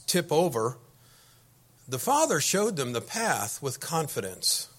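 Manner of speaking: projected, emphatic read-aloud with lifted key words; letter reading. Acted. Preacher reads a member's letter to the congregation, emphatic reading. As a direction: read it out to a room, loud and measured.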